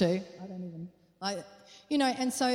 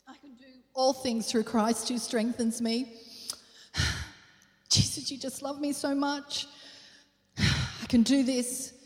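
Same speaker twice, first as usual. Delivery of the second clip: mock pious sigh; 3 semitones higher than usual. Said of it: "we come back to church and we go".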